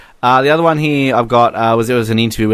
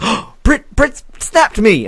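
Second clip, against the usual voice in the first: high, giddy fan voice; mock starstruck excitement; 10 semitones higher, slower than usual. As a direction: squeak it, slowing on the last words. Acts out thrilled reaction.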